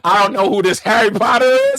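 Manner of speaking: loud put-on accent, not Scottish; loud, mistaken character accent; wrong accent. Comedian voicing a Harry Potter hater, wrong accent. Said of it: "wrong accent".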